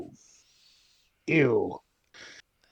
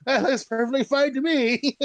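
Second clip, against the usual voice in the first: laughing sarcastic; 8 semitones higher than usual. Real, not acted. Laughing at a bad roll.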